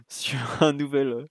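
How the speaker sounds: laughing whisper; whispered with a giggle; library whisper. Real, not acted. Talking low not to wake child.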